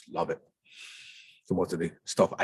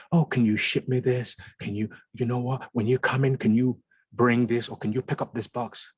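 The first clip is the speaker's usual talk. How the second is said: higher-pitched voice of people asking favors; acted eager asking, pitched up; imitated favor-askers; 5 semitones higher than usual. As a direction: mimic someone putting in one request after another. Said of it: "where people are fighting sometimes".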